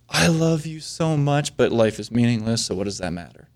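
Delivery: sweet nothings trailing into quiet resignation; mock love-letter writer. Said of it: "sounds like a guy you really want writing you love letters".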